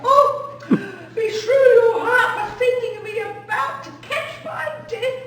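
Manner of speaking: loud laughing scold. Acted. Nurse scolds loudly laughing.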